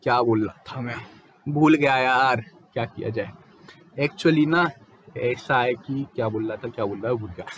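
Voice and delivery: filler-heavy hesitation. Shown as a demonstration. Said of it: "जैसे अगर मैं बोलने लगूँ".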